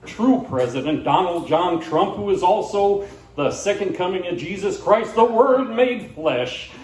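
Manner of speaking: lightly voiced country patriot, punching key words; a hint of zealous bandleader declaring his loyalty; Arlo McCready. Singer proclaiming patriotism to viewers, lightly hammed-up declaration. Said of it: "He says".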